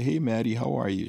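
upbeat retold phone hello; cheery phone greeting. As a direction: greet your wife brightly on the phone. Phoning his wife with cheerful greeting.

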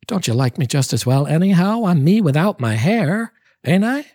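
begging him to forgive her, voice soaring high; cried out pleading. Acted.

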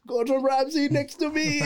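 high-pitched starstruck squeal of words; acted-out fan excitement; too excited. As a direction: replay your giddy disbelief, voice way up. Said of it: "because I was too excited".

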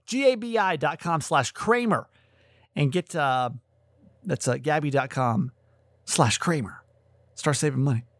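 hiccuping through the plug; talking with sudden hiccups. Real, not acted. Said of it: "I have hiccups all of a sudden".

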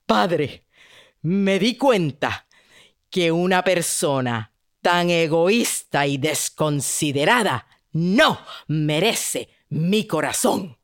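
low, slow and resolute; a princess finding her strength; firm, determined princess. Acted. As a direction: gather your strength and declare it. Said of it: "agarrando más fuerza".

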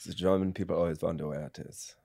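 low, soft German-accented English; German-British accent. Shown as a demonstration. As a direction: speak English as a German taught by Britons. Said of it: "a German who learned English through a British accent".

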